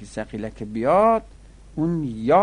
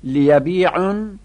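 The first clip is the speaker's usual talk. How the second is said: لیبیعن stretched out slowly and loudly; slow emphatic model; 7 semitones higher, 8 dB louder, much slower than usual. Shown as a demonstration. Teacher models the emphatic form loudly for students. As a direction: spell out لیبیعن syllable by syllable. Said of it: "مفرد مذکر مغایب امر غایب".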